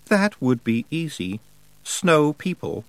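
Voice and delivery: lightly voiced cold winter spirit, slow and proud; Wintersmith voice. A hint of the Wintersmith telling Tiffany his plan. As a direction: speak as a frost god pleased with himself.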